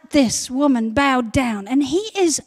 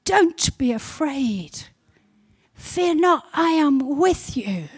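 the Lord's reassurance; 3 dB quieter, slower than usual. Retold or imitated. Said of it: "the Lord says".

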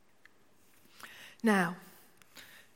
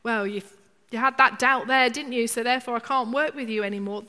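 loud, scolding, brushing-off voice; hammed-up reproach; mock disappointed God; 7 dB louder, faster than usual. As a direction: play a God who gives up on you. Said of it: "Don't ever think Jesus goes".

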